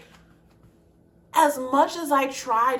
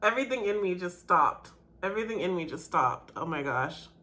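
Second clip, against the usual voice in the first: quietly stunned; 6 semitones lower, 8 dB quieter than usual. Real, not acted. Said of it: "I'm crying".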